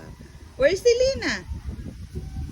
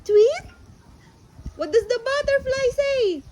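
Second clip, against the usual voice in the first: put-on talking to a toddler. Animal sounds game with toddler.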